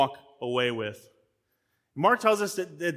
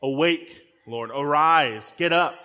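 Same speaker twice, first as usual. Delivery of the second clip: urgent plea; 4 dB louder, slower than usual. Retold or imitated. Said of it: "he's talking about".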